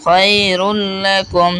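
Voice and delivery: slow "খায়রুল লাকুম", r running into l; measured recitation of "খায়রুল লাকুম" with linked lam; joined lam. Shown as a demonstration. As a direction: join "রুল" onto "লাকুম" with a held l. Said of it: "র লামকে গিয়ে ধরবে".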